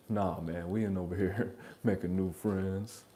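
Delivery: a hint of a cool guy; fly person. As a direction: say it like a smooth fly dude. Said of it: "say it like a fly person".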